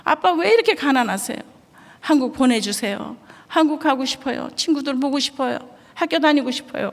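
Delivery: put-on a boy begging to go home; lightly voiced tearful boy; crying son. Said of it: "펑펑 우는 거예요".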